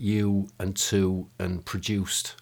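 slow imitated twang on the vowels of you, to and produced; lightly put-on regional twang, slowly demonstrated; imitation Lol twang. Shown as a demonstration. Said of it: "apologies for that sort of imitation accent".

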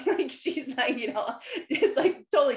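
high laugh on the word; amused laughing aside. Real, not acted. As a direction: squeal it out through a laugh. Laughs about Skylar.

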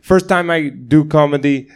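imitating a Nepali comic's accent; broken-English Nepali accent impression; thick Nepali accent. Retelling a Nepali comic's opener on stage, thick accent. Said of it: "this really thick accent".

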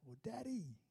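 drawn-out call for Dad, kept soft; mock calling out. Hurt child yelling out for Daddy, softened mock call. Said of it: "or you yelled out".

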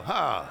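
single forced "ha"; a lone "ha" on purpose; practice laugh. Shown as a demonstration. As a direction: demonstrate one deliberate laugh. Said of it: "Just practice that for a minute".

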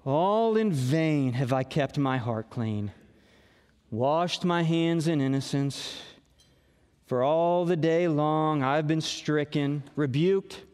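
droopy self-pitying Eeyore read; a hint of mopey Eeyore; Eeyore impersonation. Shown as a demonstration. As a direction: moan it like a gloomy donkey. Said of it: "That's my best Eeyore impersonation right there".

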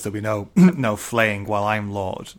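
half-hearted imitation of a lord announcing to the castle; mild mock proclamation. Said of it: "really loudly".

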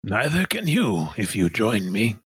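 measured villain tempting a recruit; stately persuasion, drawing out the close; Sun Minister De Winton. Acted. Villain urging the crew to join, stately and persuasive. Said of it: "This is a tough voice to do".

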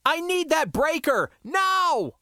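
high, urgent demand; pressing, high-pitched call; yelled over comm. A narrator's reading. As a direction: yell an order down the comm. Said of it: "I yelled over comm".

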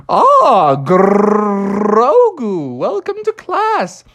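put-on high, eager kid frog voice; excited Froggy. Froggy greets Baby Yoda, high and thrilled. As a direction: gush at your new green friend. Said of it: "Froggy was like".

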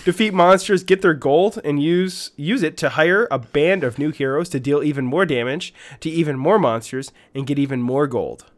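emphatic promo read; game blurb read. Acted. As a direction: sell the game like an announcer. Reads game blurb as announcer.

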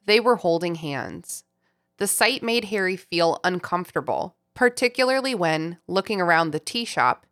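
calm storybook reading; story narration. Acted. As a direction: read it like an audiobook. Reads book passage.

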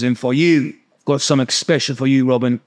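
light mock-Cockney accent; accidental Cockney. Imitating the neighbour handing out gifts, lightly put-on Cockney. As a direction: slip into a hint of Cockney for the quote. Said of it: "I don't know why I'm talking like that".

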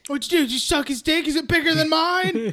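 mock taunting rant. Second teller joins villain's taunting.

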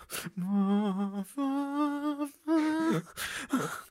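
long, high put-on wail; mock weeping. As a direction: sob in drawn-out, high, exaggerated moans. Clacker weeping as camera finds him.

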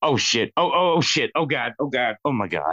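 hammed-up panicked oh shit; shaky stammering panic. Bob panics at clown attack.

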